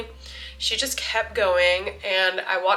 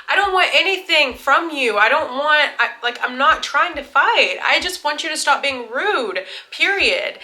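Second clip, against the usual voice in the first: higher, emphatic pleading to be left alone; insistent protest; 6 semitones higher, 3 dB louder than usual. Retold or imitated. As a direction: reenact standing your ground, pitched up. Acted quarrel with the woman.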